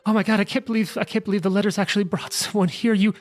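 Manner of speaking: high, relieved gushing villager; frantic townswoman. Acted. Barber greeting the arriving heroes, high and relieved. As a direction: gush with relief, words tumbling.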